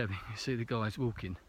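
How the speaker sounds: breathless from the uphill snow walk; panting between words; out of breath. Real, not acted. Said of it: "bit out of breath".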